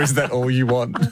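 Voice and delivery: "Is that all you want" said through a laugh; laughing while repeating "Is that all you want"; laughing quote. Retold or imitated. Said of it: "No one says yes after".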